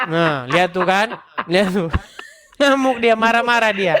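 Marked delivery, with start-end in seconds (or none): 1.4-3.9 mocking laugh through the words; laughing at the rival for losing his cool; laughing at him. Real, not acted. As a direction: chuckle while pointing out his temper. Mocking the angry opponent.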